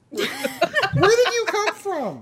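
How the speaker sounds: slow, high and laughing. Real, not acted. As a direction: laugh it out at the cat. Cat suddenly jumps on him.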